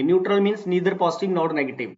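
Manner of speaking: slow definition. Shown as a demonstration. Teacher defines term.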